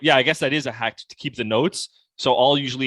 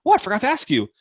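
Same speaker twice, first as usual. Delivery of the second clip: much higher, acted afterthought; sudden realization; 10 semitones higher, 3 dB louder, faster than usual. Shown as a demonstration. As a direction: say it as if you just remembered. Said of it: "that sentiment was like, "Oh shit, I forgot".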